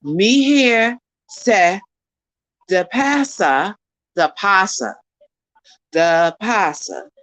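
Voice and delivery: learner trying a Jamaican patois line slowly; careful slow Jamaican patois try; Jamaican patois attempt. Learner attempts the phrase in Jamaican patois for Carrie. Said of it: "Now we gonna do it in patois".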